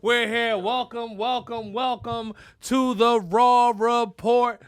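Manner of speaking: big, drawn-out announcer welcome; show opening. Shown as a demonstration. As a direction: stretch out the show title like a loud host. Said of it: "is how I start the show".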